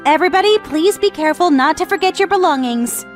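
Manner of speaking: friendly, caring reminder; gentle announcement to everybody; kind voice. Acted. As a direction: remind the group kindly. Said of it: "With a kind voice".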